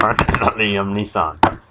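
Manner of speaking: amused correction through giggles; laughing. Real, not acted. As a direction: say it while laughing. Laughing at own lyric.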